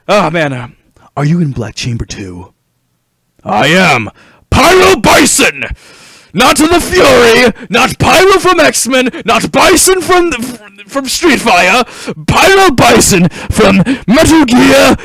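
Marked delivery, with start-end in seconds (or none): 3.4-15.0 boss voice. Acted. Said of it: "I don't know why I sound like this".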